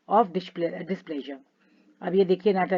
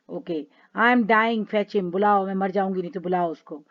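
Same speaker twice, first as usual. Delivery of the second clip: mock wailing. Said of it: "जोर जोर से चिल्ला चिल्ला के रो रो के".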